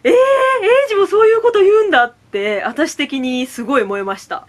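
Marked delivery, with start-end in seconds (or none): 0.0-2.0 high, surprised "えー" with a laughing edge. Retold or imitated. Fan reacting to Eiji's joke, high and surprised. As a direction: act caught off guard and delighted.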